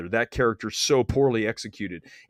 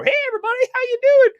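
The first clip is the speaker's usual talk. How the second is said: mock greeting pitched far higher, louder; attention-seeking critic; 7 dB louder, faster than usual. Mocking critics who greet whole screening rooms, high loud mock hello. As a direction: ham up a critic working the room. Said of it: "certain critics who walk into screenings and go".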